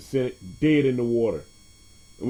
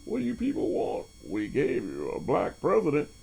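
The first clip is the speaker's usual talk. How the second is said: lightly put-on politician voice, pitched up at the start; Mitch McConnell impression. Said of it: "I love doing that Mitch McConnell accent".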